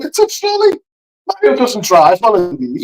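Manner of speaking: high-pitched mock protest; exasperated insisting. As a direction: retell it as a squeaky insistence. Acts out insisting in argument.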